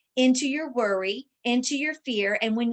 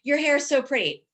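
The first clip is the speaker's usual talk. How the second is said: higher, louder sweet compliment; gushing compliment; 5 semitones higher, 4 dB louder than usual. Shown as a demonstration. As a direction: gush it like a friend admiring her hair.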